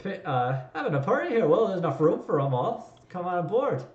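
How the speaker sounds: put-on jovial pilot in an Afrikaner accent; a player imitates the pilot's Afrikaner accent. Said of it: "I was trying to do, like, Afrikaner".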